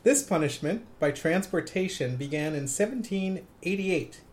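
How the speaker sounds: lightly voiced radio host reading copy, phrase by phrase; measured DJ read with pauses between phrases; Casey Kasem. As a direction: read it with a hint of countdown-show announcer. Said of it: "Channel Casey Kasem".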